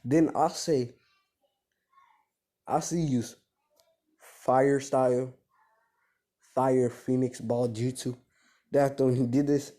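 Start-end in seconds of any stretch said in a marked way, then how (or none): 4.2-8.2 slow, deliberate technique name; attack-move call. Acted. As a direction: announce the move word by word, drawn out. Calls out an anime attack move.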